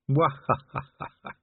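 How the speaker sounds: slow, drawn-out mocking cackle; evil laugh. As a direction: cackle like a gloating villain.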